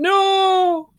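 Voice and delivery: high, loud horrified no; shocked shout. Retold or imitated. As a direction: cry out in horror. Horrified at books slammed open.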